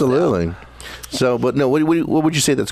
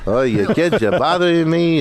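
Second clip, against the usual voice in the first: imitating a put-upon Jewish mother; Jewish mom; 4 semitones higher, slower than usual. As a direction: complain like a Jewish mom, lightly voiced. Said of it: "you can talk like that".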